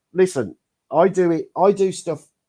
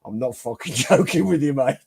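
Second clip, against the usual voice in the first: deep gravelly voice; 2 semitones lower than usual. Retold or imitated. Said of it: "he had that gravel, that deep gravel, angry voice".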